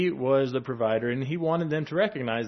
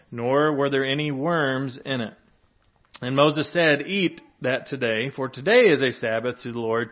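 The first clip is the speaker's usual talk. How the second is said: scripture reading; 4 dB louder than usual. Acted. Reads scripture passage aloud.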